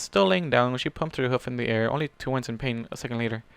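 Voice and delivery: plain reading voice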